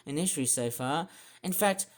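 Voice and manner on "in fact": slow, loud, emphatic indignation; ropeable. Real, not acted. Showing ever worse forecast stats, slow indignant outburst. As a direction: drag out each word, loud and high. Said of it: "it just makes me feel ropeable".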